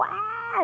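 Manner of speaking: high mock fangirl squeal; fan scream. Fans at a concert screaming, a mock high squeal. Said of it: "todo el mundo gritando".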